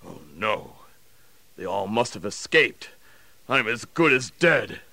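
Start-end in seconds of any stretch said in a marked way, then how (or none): 0.1-2.9 low, soft dismay; hushed, despairing realisation; sinking dread. Acted. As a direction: let the horror sink in quietly. Jailer realises prisoners are gone.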